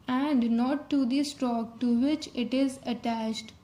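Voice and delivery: reading a rule aloud slowly and deliberately; slow, measured reading of a textbook rule. Shown as a demonstration. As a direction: read it out carefully for note taking.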